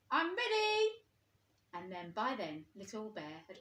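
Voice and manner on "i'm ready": higher, louder call. A narrator's reading. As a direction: announce it to the hidden toys. Old Bear calls out to hiders.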